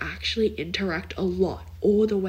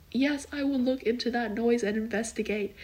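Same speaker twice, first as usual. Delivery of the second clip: higher-pitched mock-official reply; lightly voiced Dwight; 5 semitones higher than usual. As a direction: lightly imitate an officious character's answer. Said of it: "Dwight is like".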